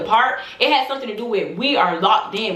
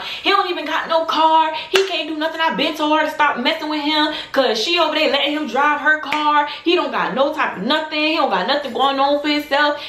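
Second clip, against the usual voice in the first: higher-pitched imitation of a mother's rant; mama exposing someone; 5 semitones higher than usual. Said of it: "her mama started exposing her".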